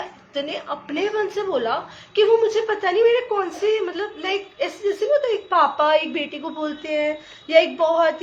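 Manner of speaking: bubbling over with happy laughter; excited laughing. Real, not acted. Recalling the kind uncle to the sangat, laughing with joy.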